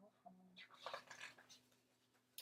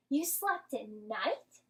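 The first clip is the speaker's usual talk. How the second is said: gasped question; 4 dB louder, slower than usual. A narrator's reading. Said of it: "gasped another".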